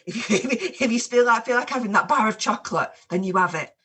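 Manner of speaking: female voice. Pretend. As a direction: put on a playful woman's voice. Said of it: "I'm gonna speak as a female now".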